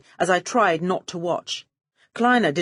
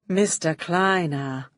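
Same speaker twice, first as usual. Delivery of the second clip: wary; slower than usual. Acted. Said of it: "I said warily".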